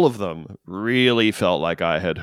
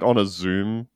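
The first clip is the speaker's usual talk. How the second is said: ordinary delivery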